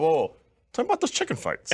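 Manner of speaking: leaning in, hooked; excited. Retold or imitated. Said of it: "I went".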